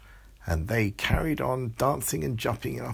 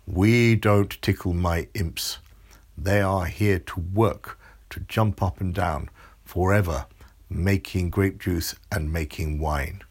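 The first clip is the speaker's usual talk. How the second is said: stern monster; 4 dB louder than usual. Acted. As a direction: scold like a grumpy giant. Monster scolds Amelia in story.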